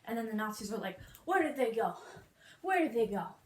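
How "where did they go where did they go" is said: loud, hammed-up searching call; mock alarmed yell. Nazis hunting the runaway family, in a mock alarmed yell.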